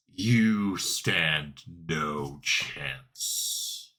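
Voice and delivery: drawn-out menacing villain; slow menacing threat. Acted. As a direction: stretch every word, threatening.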